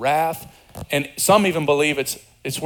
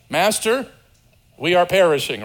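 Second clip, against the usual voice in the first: polite, measured report to a master; calmly inform him you are sinking; respectful statement. Shown as a demonstration. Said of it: "respectful information".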